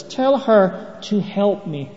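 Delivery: slow, deliberate mock order; giving orders. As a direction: lightly imitate a bossy demand, drawn out. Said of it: "Martha's giving orders here".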